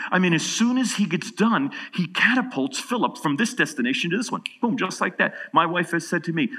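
rising excited preacher voice; excited preaching. Real, not acted. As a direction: build the congregation up. Preacher builds to loud excitement.

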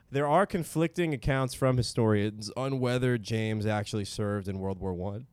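talking through burps; words broken by a burp. Real, not acted. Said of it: "Sorry, I'm burping now".

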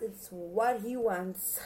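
slowly, leaning on what; slow deliberate repeat. Shown as a demonstration. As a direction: spell it out slowly, word by word.

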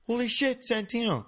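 high-pitched mock alarm; imitated startled teacher. Teacher reacting to a choking pupil, imitated high alarm. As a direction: mimic a shocked teacher crying out.

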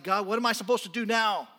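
loud, high anguished pleading; crying out to God. Acted. Hosea crying out loudly to God over his wife. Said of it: "he starts crying out to God".

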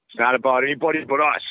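a hint of a Boston hockey coach; Boston accent. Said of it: "I'm trying to do a Boston accent and sound like him".

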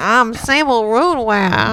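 slow mock of his character voice; lightly mimicked villain; mocking imitation. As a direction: drag the name out, teasing. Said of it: "That's what you sound like".

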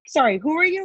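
baffled question, pitched high; high-pitched mock bewilderment; confused. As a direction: imitate someone thrown by a stranger. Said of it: "he was, like, so confused".

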